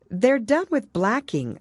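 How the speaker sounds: put-on high, slow, considering girl; a hint of a careful young girl; Alice. A narrator's reading. Alice voiced.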